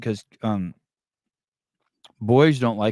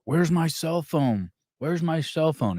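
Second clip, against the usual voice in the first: lightly voiced little kid, higher pitched; higher, drawn-out imitation of a child; imitated small child; 6 semitones higher, slower than usual. Retelling a six-year-old's words after a shooting, lightly imitated child. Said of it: "all you hear him saying is".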